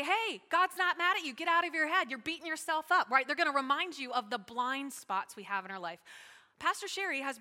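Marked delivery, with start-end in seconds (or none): 0.0-3.1 imitating frank friend. Voices a friend's blunt encouragement.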